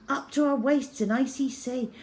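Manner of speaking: ordinary delivery, nothing marked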